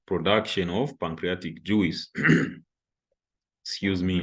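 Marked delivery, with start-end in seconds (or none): 3.6-4.2 choking on dust; speaking through a throat irritation; throat clearing. Real, not acted. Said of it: "I'm choking".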